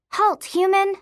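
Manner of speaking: high, commanding yell; yelled mock deep voice. A narrator's reading. Girl stops her friend as a pretend ghost, commanding yell. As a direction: order a halt like a play-acting phantom. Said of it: "I summoned my deepest voice".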